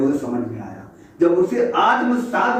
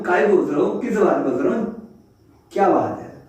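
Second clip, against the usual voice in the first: lightly voiced sly monkey coaxing; a hint of a cunning monkey pleading; wheedling monkey; 2 semitones higher than usual. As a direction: sweet-talk the lion into opening up. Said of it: "बंदर बोलता है".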